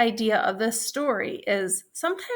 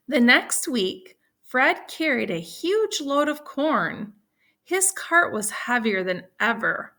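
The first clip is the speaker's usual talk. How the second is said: put-on reading to children. A narrator's reading. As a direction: lively, clear read-aloud for second graders. Teacher reads story to class.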